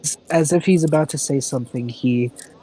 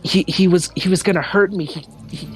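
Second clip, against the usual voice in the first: higher, rushing, frightened account; panicked retelling; 4 semitones higher than usual. Acted. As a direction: blurt it out in a panic. Nervous character recounts attack.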